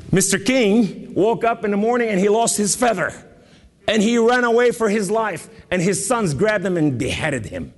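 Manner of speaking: high, driving sermon storytelling; impassioned preaching. Real, not acted. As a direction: build the tale excitedly from the pulpit.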